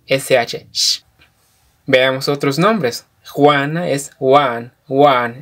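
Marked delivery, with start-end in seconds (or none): 3.3-5.4 "Juan" with the A held a little longer; slightly long A. Shown as a demonstration. Teacher modelling Kʼicheʼ "Juan" for Juana, A slightly lengthened. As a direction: stretch the A in "Juan" a touch. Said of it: "En la A alarga un poquito".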